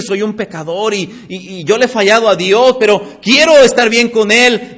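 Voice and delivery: a hint of a sinner owning up; imitating a repentant sinner. Sinner confessing to God, lightly pleading.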